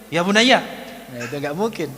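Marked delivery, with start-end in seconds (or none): 0.1-0.6 put-on high, loud demo of scolding a child; mock scolding call; snapped. Shown as a demonstration. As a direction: bark the endearment the wrong way. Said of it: "ya bunayya sambil membentak".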